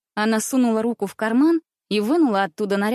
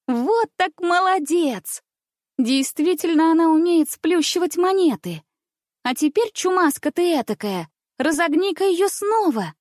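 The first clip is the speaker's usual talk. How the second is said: delighted princess; 8 semitones higher than usual. A narrator's reading. Princess delighted by strongman trick.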